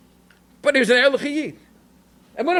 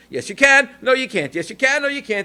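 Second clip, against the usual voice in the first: mock bickering; 6 semitones higher than usual. Two ladies bickering, voiced.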